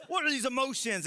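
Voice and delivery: robotic non-hugger. Pretend. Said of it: "like, someone who just".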